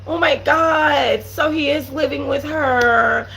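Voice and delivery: slow, high, mocking whine of a fake cry; lightly mocking teary voice; mock crying girl. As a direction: drag it out like a fake-upset girl. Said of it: "act like she wanna cry".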